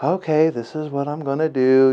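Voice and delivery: soft, calm, unruffled doctor imitation; even calm. Doctor explaining his plan to a wary father, calm. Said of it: "super even calm, never raised his voice".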